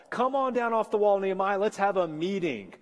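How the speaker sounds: a hint of wheedling hecklers calling up to the wall; mocking critics. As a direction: coax him down like a smooth-talking detractor.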